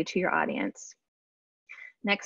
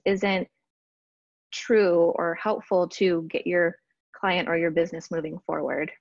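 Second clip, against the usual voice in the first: slightly out of breath; talking while out of breath. Real, not acted. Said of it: "I'm getting out of breath".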